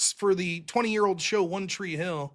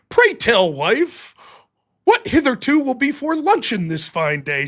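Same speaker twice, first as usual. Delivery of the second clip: mock high society; 4 semitones higher, 4 dB louder than usual. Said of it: "translate into, like, high society".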